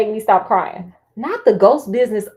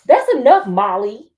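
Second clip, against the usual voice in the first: stern father; 6 dB louder than usual. Acted. Father scolds Molly.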